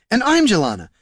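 pitched high, insisting on her identity; indignant insistence. Acted. Jelana countering her double, indignant insistence. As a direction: assert it over the impostor, voice jumping up.

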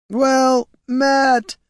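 very high, loud cry flying away; golem's cry. A narrator's reading. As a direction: cry out high as if hurled far off. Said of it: "Its cry of".

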